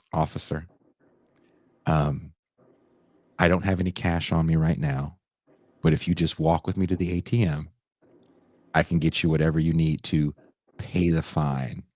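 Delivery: low, measured, halting politeness; careful polite offer. Retold or imitated. Man offering a cop to pay the fine, carefully polite. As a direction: retell a deferential offer, pausing between phrases. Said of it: "I said it like that".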